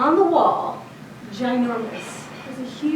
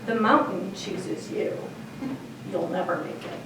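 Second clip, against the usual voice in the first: a hammed-up sage delivering a prophecy; spiritually significant tone; 3 semitones lower, 5 dB quieter than usual. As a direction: intone it like a mystic revealing fate. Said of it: "with the most spiritually significant tone".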